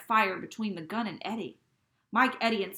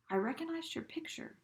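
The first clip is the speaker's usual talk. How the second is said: breathless, terrified; 9 semitones higher, 4 dB quieter than usual. Acted. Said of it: "breathless, terrified".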